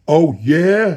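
loud, high challenge, pitch and volume rising; honking. A narrator's reading. Counsel taking up a bet, loud rising honk. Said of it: "he honked, his pitch and volume rising".

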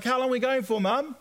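worried son asking mum how long. Retold or imitated. Teen asks mum how long.

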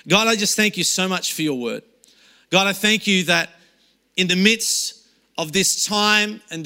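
earnest spoken prayer, unhurried in places. Acted. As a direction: pray aloud over the congregation. Pastor leads opening prayer.

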